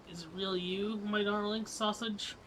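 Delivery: dote on a long-lost favourite; a hint of a doting old lady; fond greeting. Old friend greets player fondly.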